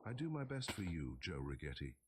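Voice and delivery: lightly voiced broken English, eager to please; a hint of a henchman's broken English; broken dialect. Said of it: "in his broken dialect".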